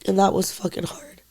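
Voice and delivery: hushed, heavy whisper; grieving whisper. Real, not acted. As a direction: voice dropping away in grief. Grieving her brother's death.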